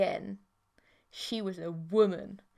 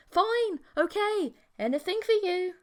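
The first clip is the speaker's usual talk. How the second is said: high, strained surrender under pain; pained giving in; 10 semitones higher, 5 dB louder than usual. Acted. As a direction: blurt it out while your hand is twisted. Hand twisted, giving in in pain.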